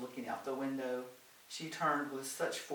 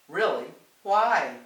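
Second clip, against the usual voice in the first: dubious; 4 semitones higher, 12 dB louder, slower than usual. Acted. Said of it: "with a dubious smile".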